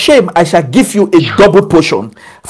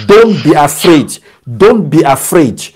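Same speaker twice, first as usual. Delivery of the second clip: reassuring voice of God; 5 semitones lower than usual. Acted. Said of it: "He says".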